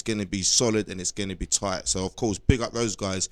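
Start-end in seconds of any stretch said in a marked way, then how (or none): 1.9-3.3 talking through a burp; words pushed out on a belch. Real, not acted. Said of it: "I'm all fucking burping over the".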